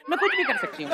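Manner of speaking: high-pitched mocking female voice; mock actress impression. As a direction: mimic her line in a squeaky falsetto. Mockingly mimics the actress's line. (औरत की नकल में पतली, ऊँची आवाज़)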